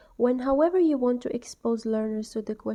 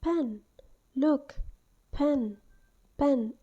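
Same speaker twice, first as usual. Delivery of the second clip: clear, slow teacher demo of "pen"; modelling a word for pupils; 3 semitones higher, slower than usual. Shown as a demonstration. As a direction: say "pen" clearly, like showing it to a class. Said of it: "point to it and say".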